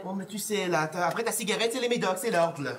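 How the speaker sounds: lightly put-on Parisian French accent. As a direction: talk like a Parisian French local. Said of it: "avec un accent parisien".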